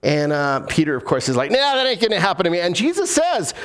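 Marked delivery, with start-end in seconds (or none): 1.5-2.6 acted dismissal. Peter brushing off Jesus's warning.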